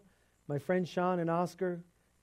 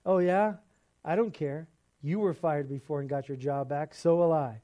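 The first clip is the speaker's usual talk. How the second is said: retold angry retort; 4 dB louder than usual. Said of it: "'Cause I was really angry".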